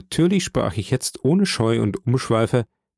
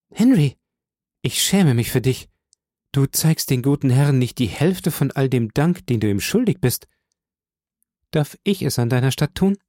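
mock scolding young woman; 2 semitones higher than usual. Portia scolds Henry playfully.

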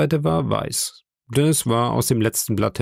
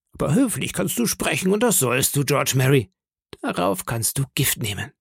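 higher, quicker pirate captain, scolding; a pirate chief warning off a mouthy sailor; Silver threatening; 6 semitones higher than usual. Acted. Silver threatens George in front of the crew, scolding pirate voice.

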